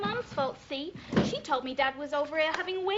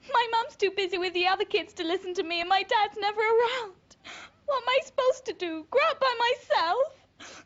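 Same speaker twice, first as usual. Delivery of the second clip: tearful plea; 4 semitones higher, 4 dB louder than usual. Acted. Daughter pleads, feeling neglected.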